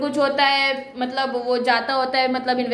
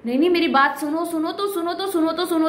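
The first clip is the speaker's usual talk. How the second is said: insistent pleading; 5 semitones higher than usual. Retold or imitated. Wife begging to be heard.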